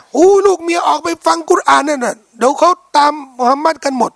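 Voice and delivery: alarmed shouted complaint. Retold or imitated. Meccan man shouts his fear that families will leave. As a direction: sound panicked that the families will follow.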